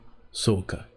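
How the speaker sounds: Japanese anime-style "sou ka"; Japanese trigger voice. Shown as a demonstration. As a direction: settle into a character voice. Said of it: "I use the phrase".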